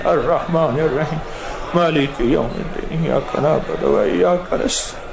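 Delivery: measured, steady Arabic chanting; devotional recitation. Acted. Imam leading the gathering in Fatiha, measured recitation. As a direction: recite for the congregation, unhurried.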